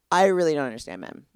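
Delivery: laughing whisper. Real, not acted. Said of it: "laughing aside".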